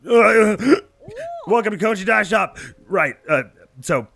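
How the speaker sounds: cheerful, a bit harried; bubbly shop greeter. Acted. Voices dye shop greeter.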